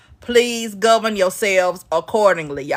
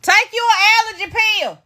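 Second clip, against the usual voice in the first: teasing; 12 semitones higher, faster than usual. Real, not acted. Teasing the sneezing girl.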